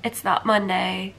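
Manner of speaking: hoarse sick voice. Real, not acted. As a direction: speak through a cold, slightly hoarse. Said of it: "I can't even hide it in my voice".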